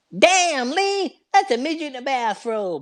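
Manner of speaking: very high-pitched, exclaiming voice. Telling a listener about watching Rush Hour, quoting a line as a Chris Tucker impression. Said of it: "He's like".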